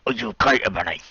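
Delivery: gentle. Pretend. Draco checking on Ebony, gentle. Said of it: "Draco asked me gently".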